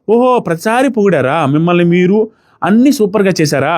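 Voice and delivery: slow, mock-impressed drawl; sarcastic praise. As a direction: draw it out as if wowed, teasing. Mocking the contestant's self-praise. (వ్యంగ్యంగా, సాగదీస్తూ మెచ్చుకోలు)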